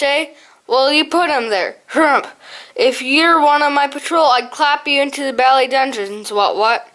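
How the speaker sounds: a hint of a blustering old hare colonel; mock harrumphing old officer; impersonating his father. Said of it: "Scarum did an even better impersonation of his father".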